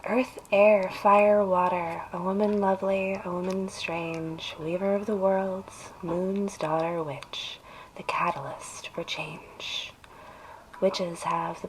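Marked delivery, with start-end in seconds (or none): 0.0-9.9 incantation. Acted. Recites a witch invocation.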